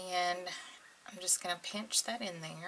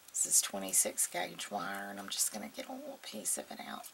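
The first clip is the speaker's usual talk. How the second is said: speaking through a sore throat, a little hoarse; throat sore and scratchy, hushed; 5 dB quieter than usual. Real, not acted. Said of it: "Still trying to get a sore throat".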